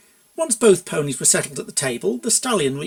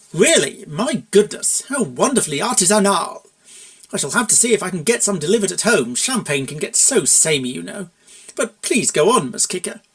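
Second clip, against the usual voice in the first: pompous gushing; 3 semitones higher, 3 dB louder than usual. Acted. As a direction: gush over it grandly.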